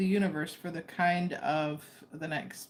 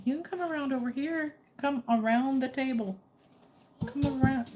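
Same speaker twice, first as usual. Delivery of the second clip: higher-pitched encouragement to a pet; coaxing a dog; 6 semitones higher than usual. Real, not acted. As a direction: coax the dog round, voice lifted. Coaxing dog around table.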